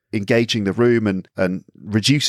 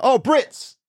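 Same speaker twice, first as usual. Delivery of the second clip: much higher, excited greeting; delighted cry. Retold or imitated. Husband delighted at hearing British people abroad. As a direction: sound thrilled to hear your countrymen.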